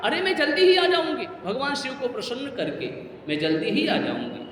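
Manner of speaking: acted daughterly reassurance that softens after a bright-pitched start; reassuring. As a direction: soothe the worried family, easing down in pitch. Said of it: "माँ ने ढांढस दिया".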